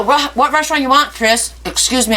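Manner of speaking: talking while chewing; speaking through a bite of sandwich; mouth full. Real, not acted. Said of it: "I'm gonna talk with my mouth".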